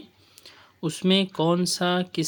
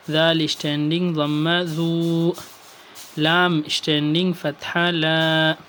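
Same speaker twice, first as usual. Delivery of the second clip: recitation drill. Shown as a demonstration. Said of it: "pronunciation آپ کے سامنے".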